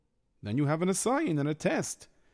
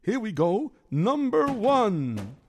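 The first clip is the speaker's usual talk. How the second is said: put-on worried Yiddish-accented kvetching. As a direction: complain like a hapless schlemiel. Figure narrates his mishap.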